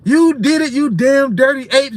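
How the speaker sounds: high, loud despairing movie cry; hammed-up film shout, slowing at the end; movie line impression. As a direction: yell it like the betrayed hero on the beach. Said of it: "like on, uh, Planet of the Apes".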